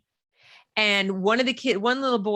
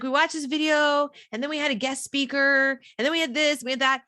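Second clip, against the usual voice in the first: put-on higher kid voice listing things; lightly voiced daughter, pitched up; daughter reciting; 5 semitones higher than usual. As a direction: rattle off a list as a child would. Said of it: "She's like".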